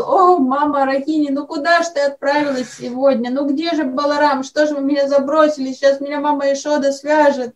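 mildly hammed-up despairing cry; desperate wail, acted. Interpreter voicing Krishna left to be tied, mock-desperate wail. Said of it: "Кришна в отчаянии уже вопил".

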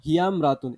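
হিয়ামরাতুন run together, the alif of ইমরাতুন dropped; হিয়ামরাতুন linked smoothly, vowel of ইমরাতুন swallowed; joined without alif. Shown as a demonstration. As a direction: read হিয়ামরাতুন as one word, no glottal stop. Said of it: "এখানে আলিফটা উচ্চারণ হবে না".

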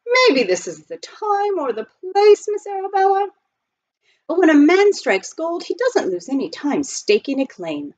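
high-pitched, halting lead-up; nervous suitor. A narrator's reading. Butler hedging before proposing to his employer, nervously.

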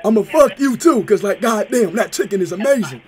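hammed-up prank caller raving about chicken. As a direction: play a rowdy, overexcited customer on the phone. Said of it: "Was that a good voice?".

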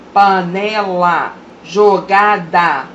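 slow, deliberate syllable split; slow teacher demo of syllables; syllables spelled out. Shown as a demonstration. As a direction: pronounce each word syllable by syllable. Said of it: "De duas".

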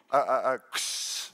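slow, low build-up to a crash; imitated loud bang. Preacher mimicking a horror movie bang, crashing sound effect. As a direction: mouth a crashing noise. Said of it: "a loud bang".

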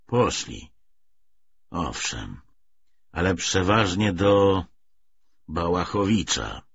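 grudging and measured, "Poszli." dropping low and falling flat; the young adjutant answers Wintoft slowly, through clenched teeth; drawn out through the teeth. Acted. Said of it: "wycedził".

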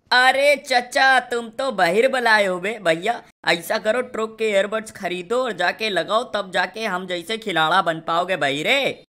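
gloating over a knocked-out opponent, loud mocking jeer; mocking taunt. Taunting a downed enemy player.

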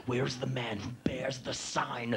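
slow, hushed, portentous quest; whispered mock-solemn searching; mock-epic whisper. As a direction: breathe it out slowly like an ancient riddle. Mock-epic search for the sign holder.

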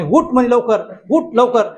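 hammed-up demon bellowing a threat; mock demon yell. Demon in the dream threatening the boy, mock yell. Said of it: "असं मोठ्याने ओरडा लागला".

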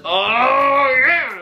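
very high, loud whoops; cheering whoop. Real, not acted. Cheering a favourite outfit, high whooping. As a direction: whoop like at a hoedown.

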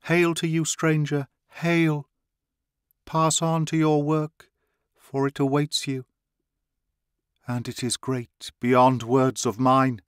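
high, excited proclamation; priestess cries out. A narrator's reading. Priestess marvelling at the two who enter her chamber, high excited cry. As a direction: cry it out in awe at the newcomers. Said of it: "cried the priestess".

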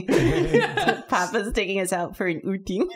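put-on chirpy kid character voice; Anya voice. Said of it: "Anya from Spy Family".

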